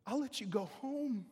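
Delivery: soft, hushed coaxing; serpent's whisper of a lie; whispered temptation. Acted. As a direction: lure them out in a whisper.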